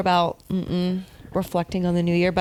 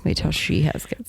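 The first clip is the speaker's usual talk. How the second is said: whispered; 3 semitones lower than usual. Real, not acted. Whispered echo.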